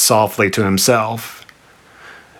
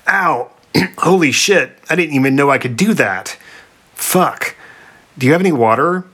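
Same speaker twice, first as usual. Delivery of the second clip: pained Sphinx; 5 semitones higher than usual. Acted. Throat burnt by her flame.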